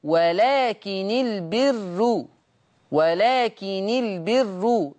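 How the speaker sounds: ولكن البر recited slowly, light unstressed nun, drawn out; tajweed demonstration of ولكن البر; Warsh recitation. Shown as a demonstration. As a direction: chant ولكن البر in Warsh style, very slow. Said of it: "ورش يقرأ".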